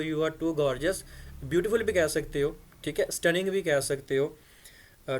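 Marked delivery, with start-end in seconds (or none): 0.0-1.0 slow model reading. Shown as a demonstration. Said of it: "तो आप उसको ऐसे ही कहो".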